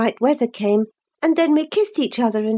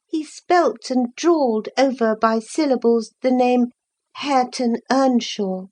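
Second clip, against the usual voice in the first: usual speaking voice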